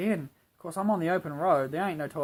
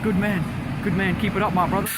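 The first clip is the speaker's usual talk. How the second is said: imitating the stranger; 6 semitones higher, 6 dB louder than usual. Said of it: "He said".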